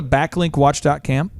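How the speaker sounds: country accent, "com" said like "cam"; lightly country "backlink watch dot com". Real, not acted. Reading out a website, a hint of country accent. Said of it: "country accent, brother?".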